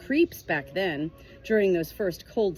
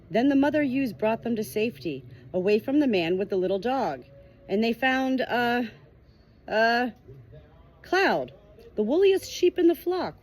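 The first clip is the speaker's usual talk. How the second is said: a lightly raised, louder sheep storyteller; Cloud storytelling; 3 semitones higher, 4 dB louder than usual. Acted. Cloud telling lambs the story, eager and bright.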